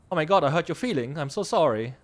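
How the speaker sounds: exaggerated, insincere sorry; mock apology. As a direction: sarcastically apologize for hurt feelings. Mocking an apology for hurt feelings.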